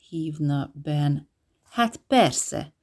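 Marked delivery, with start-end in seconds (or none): 1.6-2.7 grumbling "Hát persze" pitched higher; sulky sarcastic of course; grumpy agreement. Acted. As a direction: agree sourly, like it's obvious. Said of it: "helyeselt mogorván Jubal".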